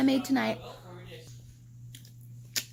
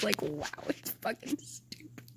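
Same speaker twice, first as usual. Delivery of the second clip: whispered, exasperated aside; fed-up whispered muttering; 3 semitones lower, 7 dB quieter than usual. Real, not acted. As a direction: hiss it under your breath. Whispered end of rant.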